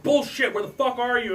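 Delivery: imitating his angry girlfriend on the phone; retold angry girlfriend. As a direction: throw her suspicion back at him. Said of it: "she's all like".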